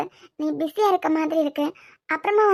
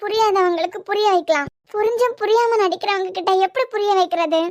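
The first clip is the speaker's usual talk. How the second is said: raised, crying reproach; tearful pleading; 3 semitones higher than usual. Acted. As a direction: plead through tears, voice lifting. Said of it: "மொத அழாம பேசு".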